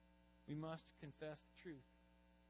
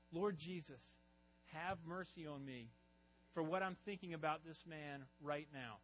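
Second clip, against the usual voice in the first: mild blurted prayer, a bit louder; 4 dB louder than usual. Retold or imitated. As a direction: blurt the prayer aloud in the meeting. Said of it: "out loud in the meeting".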